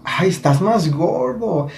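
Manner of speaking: imitación aguda, muy alargada; conocida imitada. Retold or imitated. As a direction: alarga el saludo imprudente con voz aguda. Imita lo que te dicen. (saludo imitado, agudo y arrastrado)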